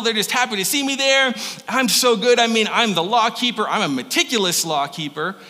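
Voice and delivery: puffed-up, loud bragging; boastful Paul. Retold or imitated. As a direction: brag like the proudest Pharisee. Preacher voicing proud Paul boasting.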